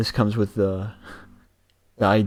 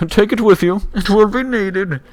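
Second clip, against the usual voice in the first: ominous voice; 12 semitones higher, 6 dB louder than usual. Acted. Echoing ominous line playfully.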